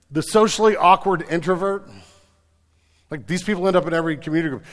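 loud, high, driving sermon delivery; full-force preaching. Acted. Pastor rallying the congregation, loud and high. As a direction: preach it big to the whole room.

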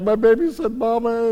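hammed-up happy crying; imitated tearful joy. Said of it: "you had that crying moment".

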